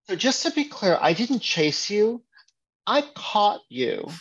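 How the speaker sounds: deadpan smug retort; smug correction. Pretend. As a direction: savor the gotcha. Player smugly corrects alien.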